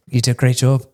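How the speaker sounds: lightly Irish praise; Irish stranger congratulating the singer; Irish accent. Retold or imitated. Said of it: "I can't leave the accent".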